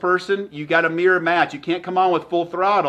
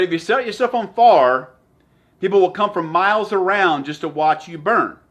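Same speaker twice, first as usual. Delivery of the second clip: bad Southern accent. Quoting the limousine gentleman in a lightly put-on Southern accent. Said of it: "I do a terrible accent".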